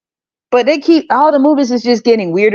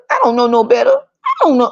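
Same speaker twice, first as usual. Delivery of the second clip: mocking voice; 5 semitones higher than usual. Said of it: "Why is everybody talking like this?".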